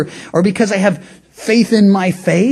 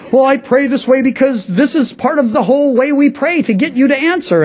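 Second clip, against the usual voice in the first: defensive pray-er; 6 semitones higher than usual. Retold or imitated. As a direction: justify the showy prayer, a bit embarrassed. Pray-er defends his formal style.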